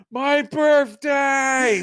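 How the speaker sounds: high, drawn-out mock scream; screamed impression. Co-host imitates a wrestler's garbled scream, shouted. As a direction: holler it slowly like a garbled battle cry. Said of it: "what the hell he screamed, but it sounded like".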